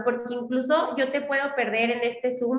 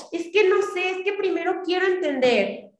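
mock doubter; 6 semitones higher than usual. Mocking a hesitant recruit's excuse.

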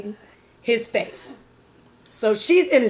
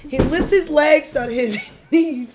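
laughter breaking into the words; reading it while giggling; trying not to laugh. Real, not acted. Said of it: "stop making me laugh a little bit".

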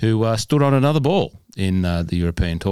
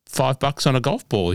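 amused high voice; 9 semitones higher than usual. Acted. Mocking stingy playing partners.

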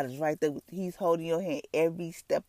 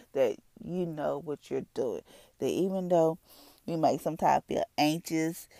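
earnest, steady praying voice; prayer. Acted. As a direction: pray it for the listeners. Leads a prayer.

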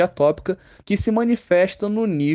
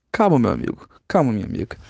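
lower-pitched, soothing calm-down; mock reassurance; 6 semitones lower, faster than usual. Teacher to imagined scared students, low playful reassurance. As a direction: settle them with a low, falling voice.

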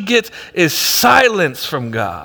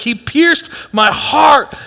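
slow, raised anguished line; pained cry; 5 semitones higher, slower than usual. Retold or imitated. Pastor reading the writer's grief, slow pained cry. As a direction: lean into the pain slowly.

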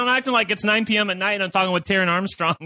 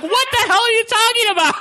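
high, loud mock exasperation; a hammed-up what the hell; irritated outburst; 6 dB louder than usual. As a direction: play the baffled, annoyed co-host. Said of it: "he was like".

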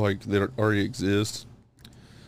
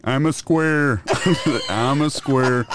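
slightly raised goofy voice; deadpan goofy character lines; Jerry Hash impression; 3 semitones higher, slower than usual. Asked to do Jerry Hash, lightly voiced. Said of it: "Do Jerry Hash".

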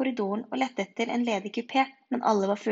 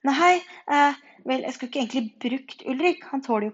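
high, loud start, hesitant excuse; stall, then defend yourself sheepishly; caught out; 3 semitones higher, 5 dB louder than usual. A narrator's reading. (nølende, unnskyldende og lys stemme)

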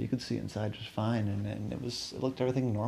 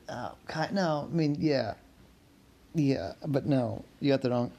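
strained voice; 3 semitones higher than usual. Real, not acted. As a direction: force words past a sore voice. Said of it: "My voice is too messed up".

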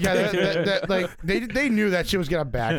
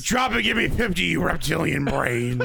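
drill sergeant. Pretend. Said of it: "Alex Jones being a P".

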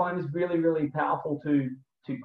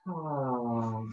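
soft ha on the out-breath; breathy ha exhale; 2 semitones lower, 7 dB quieter than usual. Shown as a demonstration. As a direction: let the air out with a ha. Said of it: "breathing out through your mouth".

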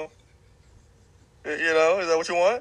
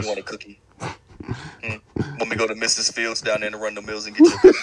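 mocking, laughing; 3 semitones lower, 4 dB louder than usual. Real, not acted. Mocking co-host with cookie offer.

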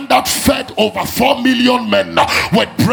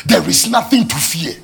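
low answering voice; 5 semitones lower than usual. Acted. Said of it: "that's what God's word is saying".

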